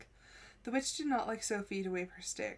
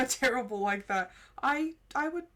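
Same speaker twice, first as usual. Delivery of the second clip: laughing; 3 semitones higher, 7 dB louder than usual. Real, not acted. Laughing while reading quote.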